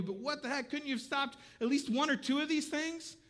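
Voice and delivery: exasperated, rising complaint to God; frustrated plea to God. Retold or imitated. Pastor reenacting yelling at God, frustrated and rising. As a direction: shake your fist at heaven, half-laughing. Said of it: "I'm yelling at God".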